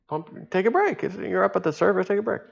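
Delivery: high and soft, exasperated; half-voiced plea. Thinking at the tired diver, high and soft with exasperation. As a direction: softly urge him to just pump the vest.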